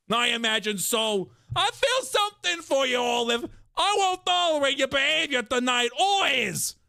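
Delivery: high, loud, hammed-up Italian; mock Italian accent. Crime boss scolding Olive in the car, loud hammed-up Italian accent. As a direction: ham up the Italian mobster accent. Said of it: "Italian accent".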